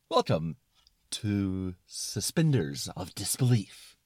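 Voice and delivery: slow, emphatic sign-off; grand welcome. Acted. Suspenders of disbelief closing the skit, grand and slow. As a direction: announce the title slowly and grandly.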